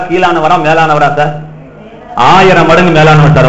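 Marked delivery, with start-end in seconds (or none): 2.3-3.5 loud, certain declaration to the hall; emphatic loud answer. Real, not acted. Preacher to congregation, loud firm declaration. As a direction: proclaim it firmly to the crowd.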